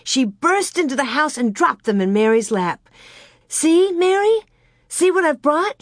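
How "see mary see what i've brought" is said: put-on high, loud girlish excitement; excited cry. A narrator's reading. Girl showing her sister the papers she brought, excited cry. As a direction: cry it out, pitch leaping up. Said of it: "she cried".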